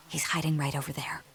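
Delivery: hushed secret whisper. Acted. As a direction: whisper it so the child can't hear. Secret about hide and seek.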